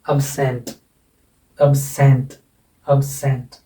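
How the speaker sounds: एब्सेंट with the final सेंट leaned on; light first syllable, firm सेंट in एब्सेंट; teacher demonstrating end-stressed एब्सेंट, repeated with pauses; stress on second syllable. Shown as a demonstration. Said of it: "ज़ोर देकर बोला जाएगा".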